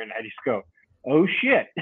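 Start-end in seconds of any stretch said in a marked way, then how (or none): 1.1-1.7 higher-pitched mock "uh-oh" reaction; retold dismay. Angler retelling his reaction to the conservation officer, dismayed. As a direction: react as if just caught out.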